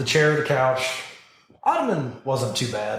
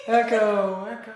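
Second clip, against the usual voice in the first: cave echo; 9 semitones higher than usual. Pretend. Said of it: "sounds like we have a major echo".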